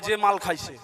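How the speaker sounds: low, soft, laughing slur; laughing drunk mumble. Retold or imitated. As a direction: chuckle it out like a tipsy old man. Drunk old man answers. (হেসে জড়ানো মাতাল কণ্ঠে)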